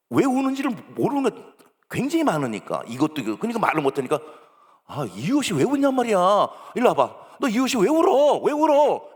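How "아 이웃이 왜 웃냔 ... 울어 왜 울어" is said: building to loud, high demands; exasperated parent. Acted. Acted parent demanding why child cries, exasperated. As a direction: press the question harder and higher each time.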